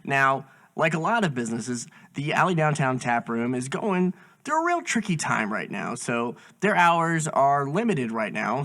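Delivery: podcast host's measured promo read; sponsor ad read. Real, not acted. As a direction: read out a sponsor plug, clearly and evenly. Reads the sponsor ad.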